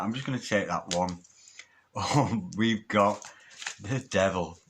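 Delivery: ordinary talk, nothing marked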